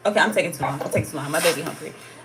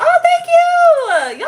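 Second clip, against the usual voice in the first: much higher, louder thank you; delighted squeal; 10 dB louder than usual. Real, not acted. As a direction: squeal it out, flattered. Flattered by chat hyping her.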